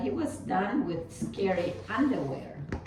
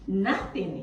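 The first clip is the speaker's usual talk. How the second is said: yelped. Acted. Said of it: "he yelped".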